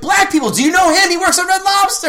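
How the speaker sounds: mock crowd call-out. Host calling out to the crowd. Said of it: "I'm like".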